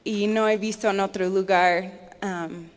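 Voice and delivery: Spanish with an American accent; an English speaker's Spanish, American accent. Real, not acted. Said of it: "mi español ha fallado un poco".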